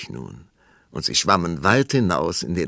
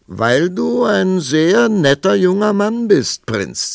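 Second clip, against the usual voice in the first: very high, slow, sing-song princess voice; flirty princess; 12 semitones higher, 8 dB louder, slower than usual. A narrator's reading. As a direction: flatter him sweetly, drawn out. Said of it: "sagte die Prinzessin".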